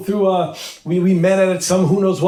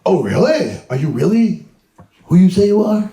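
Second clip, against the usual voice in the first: mock sceptical reply; 2 semitones higher than usual. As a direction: play the unimpressed receptionist. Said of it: "It's like".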